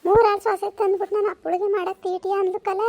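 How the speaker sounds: hammed-up whining cry; tearful complaint. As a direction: keep wailing to your son. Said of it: "ಅಳ್ಬೇಡ". (ಅಳುತ್ತಾ ದೂರುವ ದನಿ)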